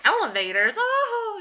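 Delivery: loud, high hooting disbelief; imitated mocking laughter. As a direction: imitate her cracking up at you. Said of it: "just started laughing at me".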